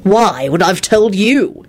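slow, rude retort; pointed comeback. Acted. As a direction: drag it out scornfully. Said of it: "he responded rudely".

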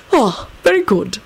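put-on mild old headmaster; mild approval. A narrator's reading. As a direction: pronounce it mildly, unbothered. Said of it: "he pronounced mildly".

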